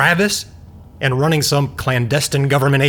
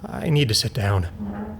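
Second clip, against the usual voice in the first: stunned; 4 semitones lower, 7 dB quieter, slower than usual. Acted. Overwhelmed by the news.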